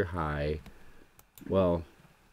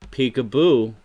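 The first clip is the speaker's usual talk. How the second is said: playful peekaboo; 4 semitones higher, 9 dB louder than usual. Acted.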